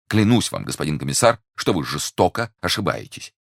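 earnest protest. Acted. Prisoner swears innocence to the commissioner, protesting earnestly. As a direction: swear it urgently.

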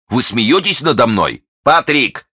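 indignant call. A narrator's reading. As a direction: summon the servant in alarm. Duke indignant, calls his servant.

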